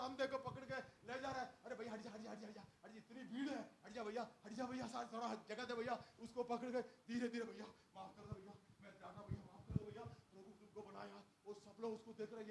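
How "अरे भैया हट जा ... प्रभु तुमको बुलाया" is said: hushed urging. Acted. Crowd leading blind man through.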